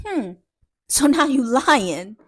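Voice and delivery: slow, deliberate mock threat; menacing threat. Grandma warning her son about a whooping, menacing. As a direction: draw out each word as a warning.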